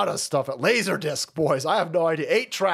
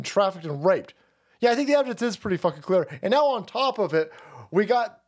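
indignant rant; 3 semitones higher than usual. Real, not acted. Host rants at a denial.

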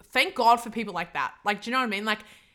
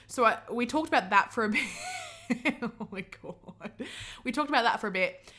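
laughing. Real, not acted. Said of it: "I'll stop laughing".

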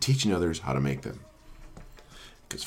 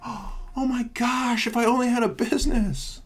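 mock thrilled. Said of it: "mock thrilled reply".

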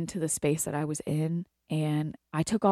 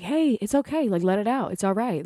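higher-pitched soothing retold comfort; reassuring; 4 semitones higher than usual. Stylist to a client who started crying, reassuring. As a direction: gently coax someone to let it out.

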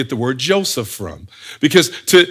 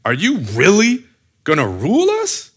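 slightly raised, spaced-out incredulous question; heavy disbelief; 3 semitones higher than usual. Acted. Brothers doubling up on Joseph, heavy disbelief. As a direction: break it before the last words, incredulous. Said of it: "There's a heaviness in this".

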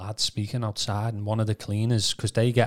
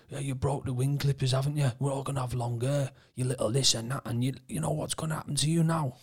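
mildly menacing, higher-pitched imitation; retold menace; 4 semitones higher, 3 dB quieter, faster than usual. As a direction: lightly act out a threat through a door. Unseen cleaner's threat, retold.

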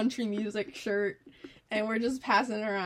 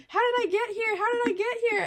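put-on high, loud, repetitive drunk wail; mock-drunk high-pitched whine; imitating drunk friend; 12 semitones higher, 5 dB louder than usual. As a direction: keep asking, loud and bewildered. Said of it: "she just keeps saying".

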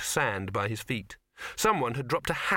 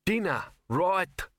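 high, slow nervous quaver; 7 semitones higher, much slower than usual. Acted. Scared chef answering Throat, a quavering voice. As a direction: wobble the words like a scared cook. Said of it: "quavered Fruntkin".

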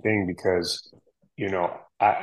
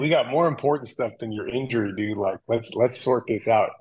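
higher joking mock urgency, easing off; mock alarm; 3 semitones higher than usual. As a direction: keep up the playful fake panic. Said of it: "Joking, of course".

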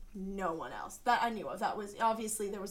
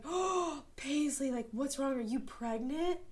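worried friend; 5 semitones higher than usual. Retold or imitated. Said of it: "she was, like, so worried".

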